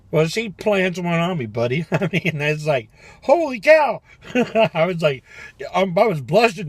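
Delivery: high, loud, laughing disbelief; excited. Real, not acted. Man retelling a stranger's kiss, high and excited. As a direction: gush about the surprise kiss.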